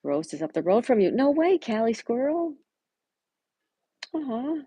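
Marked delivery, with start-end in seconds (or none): 1.1-4.5 high, slow, drawn-out no way; much higher, stretched out in real delight; delighted surprise. Real, not acted. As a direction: gasp of happy disbelief. Surprised two viewers are neighbours.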